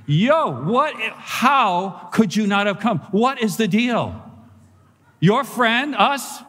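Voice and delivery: a mock Brooklyn-Yiddish complaint building to a yell; indignant Brooklyn-Yiddish rant, rising to a shout; half Brooklyn half Yiddish. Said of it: "sort of half Brooklyn and half Yiddish".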